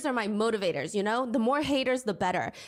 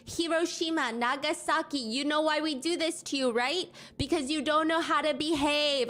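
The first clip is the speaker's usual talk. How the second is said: higher mock yell; imitating a ranting man on a train, pitched up; retelling a train rant in a raised mock yell; retold screaming; 5 semitones higher than usual. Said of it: "Then he starts screaming on the train".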